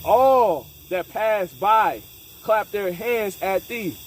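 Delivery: drawn out and loud, each word weighed; a slow, heavy preacher's read; slow scripture reading. Acted. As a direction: read it like a pronouncement, very slowly. Rereading the verse with weight.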